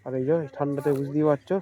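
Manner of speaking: muffled through a helmet; inside a helmet. Real, not acted. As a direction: speak from inside a full helmet. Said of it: "helmet পরে আছি".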